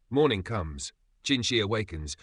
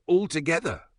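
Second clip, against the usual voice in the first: cry out to the crowd; 9 semitones higher, 4 dB louder than usual. A narrator's reading. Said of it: "another cries".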